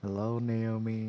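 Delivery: hoarse sick voice; husky from a sore throat. Real, not acted. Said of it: "you're not using a voice changer".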